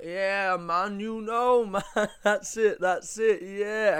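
loud, high, slow overeager bro voice; imitating eager guy. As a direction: ham up a try-hard bro grabbing your hand. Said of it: "and he'd be like".

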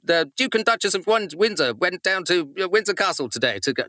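put-on old Pathé newsreel announcer; crisp 1940s newsreel read; 1940s newsreader. Shown as a demonstration. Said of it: "the nineteen forties Pathé newsreader voice".

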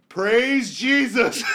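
high, loud, drawn-out hallelujah shout; acted elated relief. Driver retells escaping a speeding ticket, slow jubilant shout. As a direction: cry it out like a reprieve from above. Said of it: "I was so happy".

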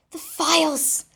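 loud, high alarm; panicked cry. Acted. Narrator realizing the files are missing, panicked. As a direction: blurt it in sudden panic.

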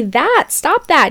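high, loud, drawn-out stop that; mock scolding. Telling the Tinder guy off, high loud scolding. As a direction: scold him, slowly and loudly. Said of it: "And I say".

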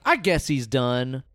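slow, offhand deadpan. Retold or imitated. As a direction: shrug it off flatly. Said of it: "is like".

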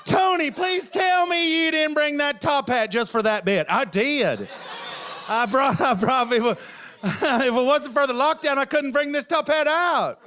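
put-on lapse into a Southern American accent. Comedian teasing himself about his top hat, Southern American accent. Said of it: "Why is he talking in a Southern American accent?".

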